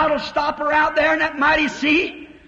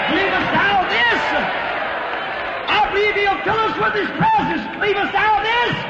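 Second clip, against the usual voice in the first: rising altar call; 2 semitones higher than usual. Real, not acted. Preacher asking the congregation if they believe, rising fervent appeal. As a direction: build the challenge question by question.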